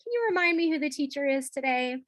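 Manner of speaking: teasing, lilting question to a student; playful. Shown as a demonstration. Teacher reminding a student who's boss, playful. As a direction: coax the kid with a playful lift. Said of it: "think playful interaction".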